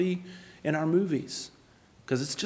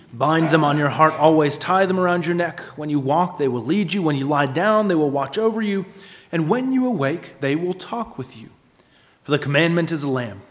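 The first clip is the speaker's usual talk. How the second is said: louder, declaiming Bible reading from the pulpit; scripture reading; 4 dB louder than usual. Real, not acted. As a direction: read the proverb out to the congregation like a preacher. Reads Proverbs passage aloud.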